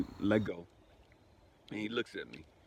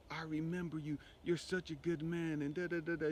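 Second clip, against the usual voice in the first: imitating tearful sobbing; 7 semitones higher than usual. Store owner hugging the grieving widower, imitated tearful voice. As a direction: imitate a man weeping through his words, pitched high. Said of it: "he's crying and just sobbing".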